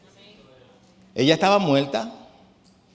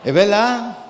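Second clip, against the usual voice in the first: laughing; 8 semitones higher, 7 dB louder, slower than usual. Real, not acted. Laughing at his own joke.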